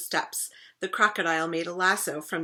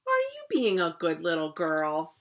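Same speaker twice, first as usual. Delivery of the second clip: sad voice. Acted. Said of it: "in the sad voice that Princess Cora hated most".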